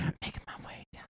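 breathy unvoiced whisper. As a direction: whisper the lyric creepily. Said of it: "I whispered it".

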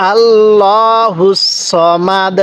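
আল্লাহুস সমাদ drawn out slowly; slow recitation. Shown as a demonstration. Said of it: "কিভাবে শিখব?".

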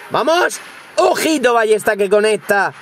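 high cheering burst of triumph; real excited gamer cheer. Real, not acted. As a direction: cheer the hit, pitch jumping up. Cheering a successful crossbow hit.

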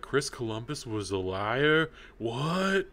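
retold stunned reaction; shocked disbelief. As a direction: voice jumping up in disbelief. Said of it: "I'm like".

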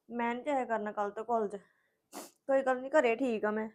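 hurt and tearful. Acted. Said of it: "ਦੀਦੀ ਰੋਣ ਕਾਹਲੀ ਡੇ ਜੇ ਹੁਣ?".

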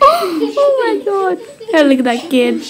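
laughing and squealing through the words; laughing fit. Real, not acted. Kid cracking up at a funny kid, laughing. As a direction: laugh till you can barely speak.

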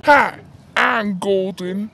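different voice. Pretend. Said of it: "do it in a different voice".

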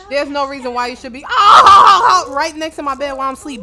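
fast, loud, laughing yell; exasperated shout. Real, not acted. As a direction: blast them, half laughing. Villagers by her bed.

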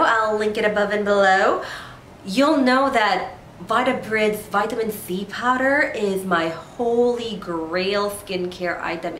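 blocked nose from a cold; stuffy nose. Real, not acted. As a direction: talk through a stuffy nose. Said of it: "my nose is all stuffy and that's why I'm going to sound a bit weird".

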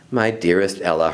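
low, gentle sigh of a mother; understated motherly sigh; sighing, tender. Acted. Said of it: "her mother sighed".

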